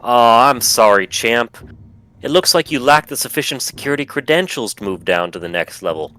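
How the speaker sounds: folksy cheerful recorded voice; cheery automated voice. Acted. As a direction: chipper old-timer announcement. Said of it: "the automated voice of Pappy Starforge comes out and says".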